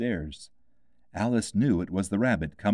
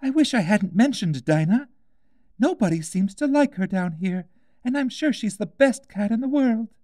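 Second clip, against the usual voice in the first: put-on high, light girl's voice, wistful; a young girl missing her cat; Alice, wistful; 13 semitones higher, 4 dB louder than usual. A narrator's reading. Alice sad and lonely.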